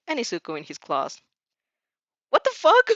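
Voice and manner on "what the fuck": high, loud startled yell; shocked shout. Acted. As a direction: cry out as claws grab you. Seized suddenly by the Nomu.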